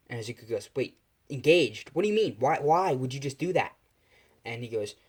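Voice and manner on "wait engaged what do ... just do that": acted startled indignation; shocked protest. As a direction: demand an explanation in disbelief. Son shocked by arranged engagement.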